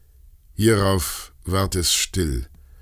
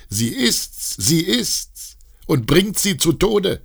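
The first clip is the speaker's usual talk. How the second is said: mob cry; 10 semitones higher, slower than usual. Acted. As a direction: scream it as the raging mob.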